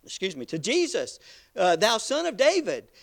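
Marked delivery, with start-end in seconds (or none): 1.7-2.9 raised, pleading cry; a preacher voicing the blind man's loud cry; mock crying out. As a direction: call it out to be heard over the crowd. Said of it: "He was screaming out to".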